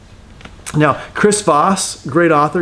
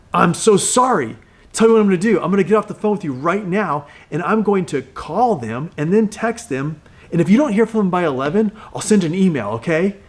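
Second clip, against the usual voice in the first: animated sympathy; 3 semitones higher than usual. Retold or imitated. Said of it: "he just needed me to be as animated about the situation as he was".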